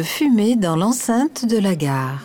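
station loudspeaker announcement; over the intercom. Acted. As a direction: read it like a train station PA. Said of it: "ma voix est sortie des haut-parleurs".

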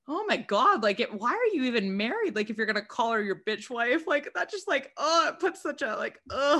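high, loud disgusted rant; getting worked up over the bitch wife line; disgusted outburst. Real, not acted. Friends sharing gossip, a loud disgusted outburst. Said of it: "disgusted outburst".

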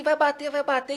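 high, loud mimicked panic; retold panicked scream. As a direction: imitate a friend yelling before impact. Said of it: "e gritando, gritando".

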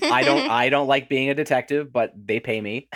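bored. Retold or imitated. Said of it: "really phoning it in".

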